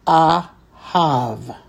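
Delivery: ahav read slowly in two parts, "a" then "hav"; pronunciation demo. Shown as a demonstration. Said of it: "So we would read that as".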